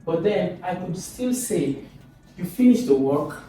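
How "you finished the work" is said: "You finished the work" as a question, voice going up at the end; question intonation. Shown as a demonstration. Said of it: "my voice goes up".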